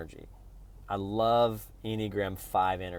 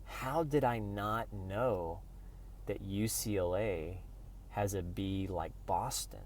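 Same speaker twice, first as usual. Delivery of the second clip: quiet wonder; 9 dB quieter, slower than usual. Retold or imitated. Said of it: "in a beautiful five way".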